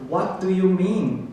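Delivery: "What do you mean" slow, with every word fully said; careful, word by word. Shown as a demonstration. Teacher showing the learner's way of asking, careful. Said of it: "요렇게 하잖아요".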